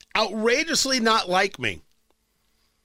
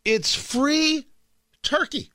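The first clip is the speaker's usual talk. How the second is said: excited; 6 semitones higher, much slower than usual. Real, not acted. Excited repeat of free turkey.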